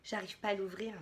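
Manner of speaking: straining at a stuck lid; opening a stuck jar. Real, not acted. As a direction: talk while forcing it open. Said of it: "Je vous assure".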